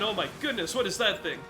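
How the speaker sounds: ordinary delivery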